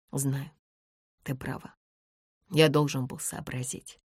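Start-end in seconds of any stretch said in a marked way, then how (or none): none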